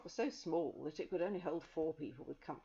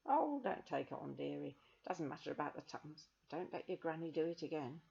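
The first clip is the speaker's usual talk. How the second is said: motherly. Acted. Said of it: "nice, motherly person".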